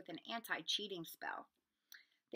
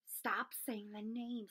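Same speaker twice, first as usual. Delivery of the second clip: terrified whisper; much slower than usual. Acted. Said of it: "said Ron in a terrified whisper".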